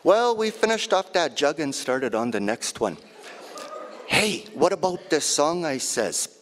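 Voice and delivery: lightly voiced lively old auntie; auntie's voice. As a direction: tell it as your auntie would. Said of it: "this piece is in my auntie's voice".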